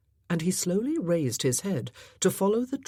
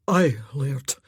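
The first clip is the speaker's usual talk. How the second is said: hoarse; 3 semitones lower, 5 dB louder than usual. A narrator's reading. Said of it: "Druston's voice was hoarse".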